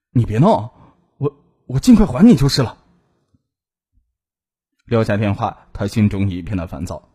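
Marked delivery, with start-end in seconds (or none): 0.1-2.8 hesitant, pitiful placating. A narrator's reading. Man begs angry ex to stop, pitiful. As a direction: plead meekly with a small stumble. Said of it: "可怜兮兮地说".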